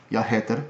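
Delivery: Jeg heter as ya HEH-ter, G dropped; Swedish without the G. Shown as a demonstration. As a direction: drop the G: ya heter. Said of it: "They don't pronounce the G".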